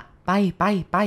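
very slow, drawn-out shooing; shooing away. Acted. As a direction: slowly shoo the spirit away. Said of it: "ปากก็พูดว่า".

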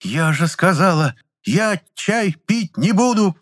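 high, slow, each word hammered; growled, word by word. A narrator's reading. Aunt snarling her refusal at the assistant. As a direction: spell out every word in fury. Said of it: "чеканя каждое слово, прорычала тётка".

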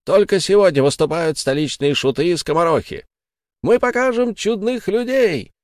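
high, ringing showman's call to the crowd; barker's cry. Acted. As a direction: sell the spectacle to a drunk crowd. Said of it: "кричали во всю глотку зазывалы".

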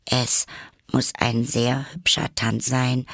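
polite but a touch anxious; mildly timid. Acted. Alice remarking on the dance to both creatures, timid. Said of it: "sagte Alice ängstlich".

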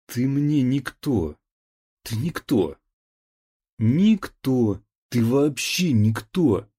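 put-on slow, loud, slurring drunken yell; drunken angry shout. A narrator's reading. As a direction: spit it out, drunk and furious. Drunk man yells at stepmother.

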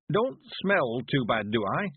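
put-on high, slow creaky old countryman; old man voice. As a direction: play a cheerful old villager.

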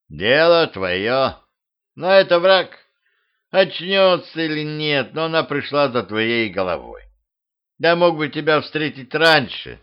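lightly voiced gruff tiger; a hint of a weary beast; tiger mercenary voice.

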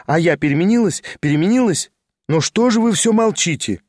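put-on lively girl teasing an old friend; young woman's voice. Lizaveta's voice held.

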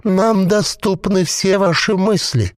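a possessed corpse bubbling out its words; gurgling voice. A narrator's reading. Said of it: "бульканье маслянистого варева".

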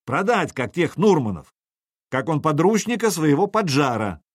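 a commander's voice ringing across a battlefield; rally the whole crowd against the traitor. Acted. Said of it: "Голос Сергея разошёлся вокруг, набрал звонкости силу".

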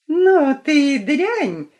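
high, loud, slow furious yell; angry shout. A narrator's reading. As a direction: spit the insult out. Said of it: "крикнула Снежная Королева".

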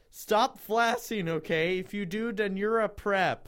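hammed-up telling-off; indignant author's note. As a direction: scold readers in mock indignation.

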